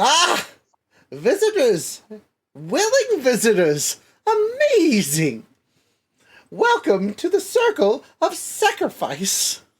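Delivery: very high, swooping, drawn-out, sinister pixie voice. Voicing a sinister pixie greeting visitors: wicked, sinister pixie voice. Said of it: "It smiles wickedly and says".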